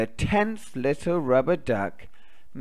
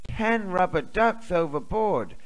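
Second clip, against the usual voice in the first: shouting; 5 semitones higher than usual. Acted. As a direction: call out the warning. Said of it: "shouts the captain".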